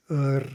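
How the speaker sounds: "er", a vowel baked into the R; syllabic R. Shown as a demonstration. Teacher sounding out a syllabic R, vowel baked in. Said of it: "represent a sound like".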